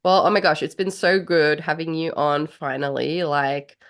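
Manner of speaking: stuffy nose from being sick; talking through a blocked nose; nasal voice. Real, not acted. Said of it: "you have to excuse my nasally voice".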